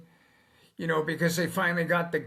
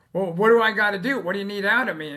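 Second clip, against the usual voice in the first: quick and louder, rushing to ask; eager owner; 2 semitones higher, 5 dB louder, much faster than usual. Retold or imitated. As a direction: jump in eagerly like a keen client. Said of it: "they're like".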